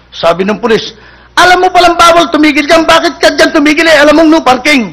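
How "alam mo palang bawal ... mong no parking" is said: raised, higher scolding policeman; scolding cop. Acted. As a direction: tell the driver off from up high.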